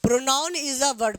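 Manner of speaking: very slow, each word stretched; slow dictation. Shown as a demonstration. Teacher dictating the definition to pupils, very slowly. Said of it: "definition में क्या कहा बाबू?".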